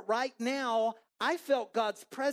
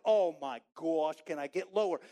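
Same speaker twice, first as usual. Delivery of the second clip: mock dread; 2 semitones lower, 4 dB louder than usual. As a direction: groan it out, wanting to hide. Child wants to hide from woman.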